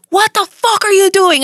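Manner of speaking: high, incredulous telling-off, acted out; mock outraged yell. Boss berating host over unplayed commercials, mock outraged yell.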